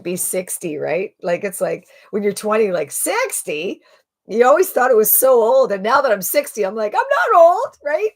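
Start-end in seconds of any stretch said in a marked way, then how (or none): 2.9-5.7 high-pitched incredulous question; mock disbelief. Twenty-year-old appalled at age sixty. 6.9-8.1 loud, high mock-indignant outburst; indignant protest. Acted protest at being called old.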